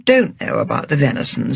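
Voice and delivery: understated and gentle; mild. Acted. James calmly backing Agatha, mild. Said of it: "said James mildly".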